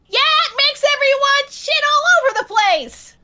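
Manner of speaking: Hades' voice. Acted. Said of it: "you can hear Hades' voice".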